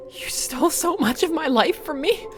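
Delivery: high, loud and bitter; furious accusation. Acted. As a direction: hurl it at him in fury. Mary accuses husband.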